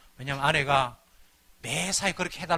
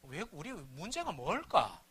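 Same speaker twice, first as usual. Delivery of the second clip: gentle question; 7 dB quieter, slower than usual. Retold or imitated. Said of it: "여보".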